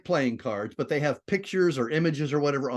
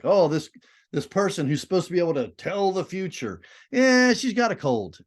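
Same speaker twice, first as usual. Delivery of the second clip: mocking, a touch higher; sarcastic; 4 semitones higher than usual. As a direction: scoff at the fortune teller. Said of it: "being a little sarcastic".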